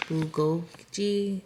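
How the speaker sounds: "bulgogi" drawn out slowly as "poo-go-zhee", a hesitant guess; "bulgogi" sounded out slowly, trying a new way; unsure second try. Shown as a demonstration. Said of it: "I don't know how to pronounce this".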